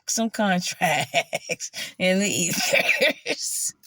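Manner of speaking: slow, laughing through the words. Real, not acted. Confessing her silly ritual, laughing. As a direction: let the laugh break into the line.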